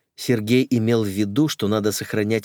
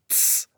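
sharp softer shh; hushing hiss; 4 dB quieter than usual. Acted. Мака silencing Кока with a sharp shh. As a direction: hiss them quiet. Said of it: "шикнула Мака".

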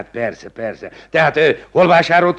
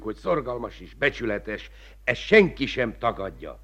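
ordinary talk

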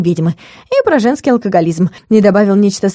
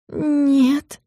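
a long, softer drawn-out no; stretched-out hesitant no; 6 semitones higher, 6 dB quieter than usual. Acted. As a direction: stretch the word, quieter. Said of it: "протянула я".

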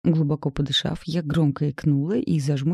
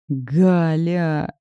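long groaning name, louder; drawn-out groan; 4 dB louder than usual. A narrator's reading. Nazar groans her name in exasperation, long and drawn. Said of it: "протянул он со стоном".

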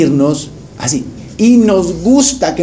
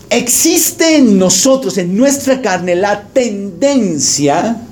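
slow emphasis; 4 semitones higher, much slower than usual. Real, not acted. Preacher stresses a point.

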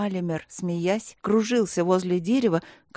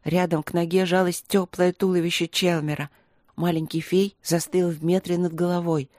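ordinary delivery, nothing marked

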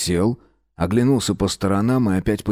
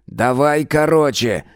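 high, slow irritated command; 7 semitones higher, 3 dB louder, slower than usual. A narrator's reading. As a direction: cut him off, annoyed. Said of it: "Мирон раздражённо".

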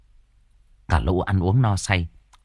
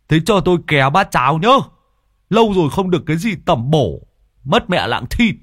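higher, louder, fast man's voice; cheeky freeloader; 7 semitones higher, 4 dB louder than usual. Acted. Tứ Lợn begging Hòa for porridge. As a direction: beg shamelessly for a bowl.

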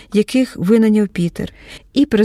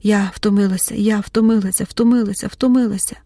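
put-on childishly hurt repetition. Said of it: "повторювала по-дитячому ображено".

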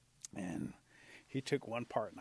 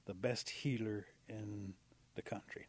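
slow, halting declaration; slow resolve; slower than usual. Acted. Possum declaring his calling to himself, slow and deliberate. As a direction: announce a big decision with spaced-out pauses.

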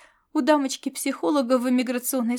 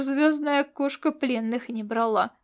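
ordinary talk, nothing marked

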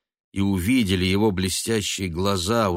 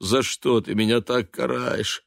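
rising, louder self-pitying wail; wailing lament; 7 semitones higher, 3 dB louder than usual.

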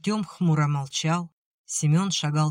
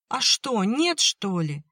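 high, defiant cry; heated outburst; 6 semitones higher, slower than usual. A narrator's reading. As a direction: snap back hotly at him. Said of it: "запальчиво выкрикнула Оля".

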